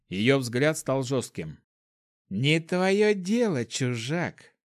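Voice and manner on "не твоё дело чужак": curt cutting reply. A narrator's reading. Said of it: "отрезала она".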